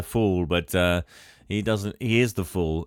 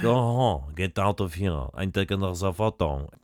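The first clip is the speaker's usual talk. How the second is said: put-on French accent; 2 semitones lower than usual. Photographer dismissing the assistant, imitated French accent. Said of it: "he's being French".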